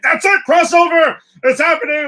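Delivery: high, loud overexcited fanboy squeal; mocking hyped fan. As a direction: parody a frantic fan yelling. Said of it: "people on the internet who are gonna run and be like".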